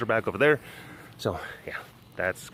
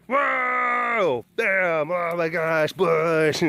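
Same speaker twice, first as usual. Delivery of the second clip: mock startled cat; 4 semitones higher, much slower than usual. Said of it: "or a cat".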